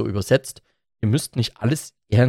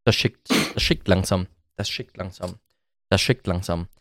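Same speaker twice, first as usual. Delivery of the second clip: fading mutter; 7 semitones lower, 6 dB quieter than usual. Acted.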